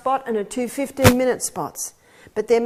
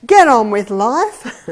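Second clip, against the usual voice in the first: firm resolve; 8 dB louder, slower than usual. Retold or imitated. Resolving after her run.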